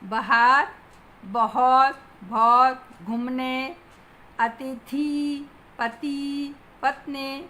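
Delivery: "बाहर" as ba-HAAR, "बहुत" as ba-hot; mispronounced word list. Shown as a demonstration. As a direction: stretch the end of "अतिथि" to a-ti-thee and "पति" to pa-tee. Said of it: "शब्दों की वर्तनी अशुद्ध है". (अशुद्ध उच्चारण: "बाहर" को बहार, "अतिथि" को अतिथी)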